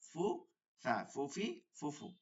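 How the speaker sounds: ফুফা, ফুফি, ফুফু with teeth-on-lip f; Arabic-style f. Shown as a demonstration. Teacher drilling the corrected sound, f in ফুফা. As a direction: breathe the f through in ফুফা. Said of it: "কিন্তু এটা হবে কি".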